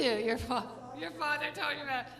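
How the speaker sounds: usual speaking voice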